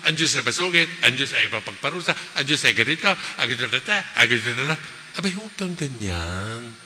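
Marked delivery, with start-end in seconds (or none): 0.1-4.8 mock complaint. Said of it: "Huwag yung".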